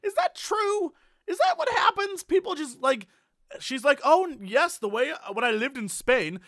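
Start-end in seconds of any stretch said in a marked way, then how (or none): 4.0-6.4 high, light voice imitating a teacher; imitating Spanish teacher. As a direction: mimic the teacher's chirpy way of talking. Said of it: "she always had a".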